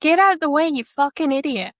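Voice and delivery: imitated irate driver in an Oceania accent; Liam Lawson. Shown as a demonstration. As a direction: put on an exasperated Oceania twang. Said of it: "a very good Liam Lawson impression".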